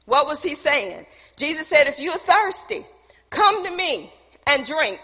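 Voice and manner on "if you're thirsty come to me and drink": raised, high-pitched call; urgent public invitation, pitched high; crying out. Acted. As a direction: call them over like a preacher. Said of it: "he's crying out in a loud voice".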